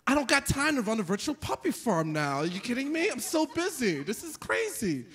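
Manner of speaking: high-pitched comic stress. Retold or imitated. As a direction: protest as if overwhelmed. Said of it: "I was getting stressed out".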